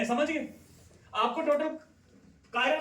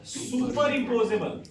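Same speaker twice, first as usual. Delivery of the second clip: drawn out slowly; much slower than usual. Shown as a demonstration. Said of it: "ये क्या बच्चों?".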